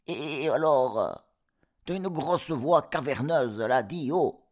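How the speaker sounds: cris aigus et forts d'enfants; démasquer le loup en criant; chevreaux qui crient. Acted. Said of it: "crièrent-ils". (chevreaux criards)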